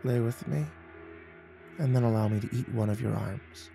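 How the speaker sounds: hushed seductive demand; quiet, intimate temptress; breathed softly. A narrator's reading. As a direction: breathe it close to the listener's ear. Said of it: "She leaned closer and breathed".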